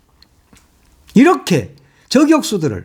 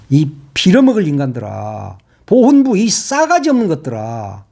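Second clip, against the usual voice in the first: angry insult. Real, not acted. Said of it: "좀 하다 보니까 좀 화가 났어".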